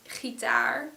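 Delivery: gitaar with the stress on the final "taar"; stress on last syllable. Shown as a demonstration. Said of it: "has a stress on the daar part".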